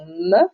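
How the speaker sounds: me as the bare sound "mmm"; isolated letter sound. Shown as a demonstration. Teacher warning pupils against confusing sounds, isolated me. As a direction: sound out me, not the letter name. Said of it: "ne pas confondre avec le son me".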